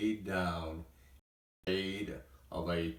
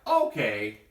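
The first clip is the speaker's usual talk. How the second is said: cried out; 6 dB louder than usual. Acted. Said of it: "Dexter cried".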